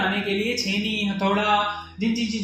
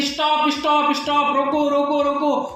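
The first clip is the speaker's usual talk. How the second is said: higher-pitched, hurried mock plea; acted cry of pain, lightly urgent; mock pained pleading; 4 semitones higher than usual. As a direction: imitate someone begging for blows to stop. Mimics the stone's earlier cries.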